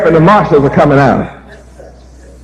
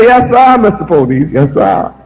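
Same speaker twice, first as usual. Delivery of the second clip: fading meek yes sir; 3 semitones lower than usual. Retold or imitated. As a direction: shrink away as you say it. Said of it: "the more you say".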